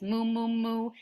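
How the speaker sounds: mooing like a cow. Shown as a demonstration. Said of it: "Cow says hello like this".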